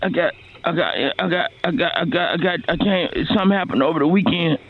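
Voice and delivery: strained, halting pained voice; hammed-up struggle through pain; biting down on pain. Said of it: "I'm in a lot of pain right now".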